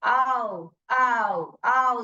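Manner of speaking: आओ glided as one unbroken vowel; one blended sound. Shown as a demonstration. Teacher showing a vowel team makes one sound, blended. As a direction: run आओ together as a single sound. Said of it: "ये साथ में एक ही sound करता है".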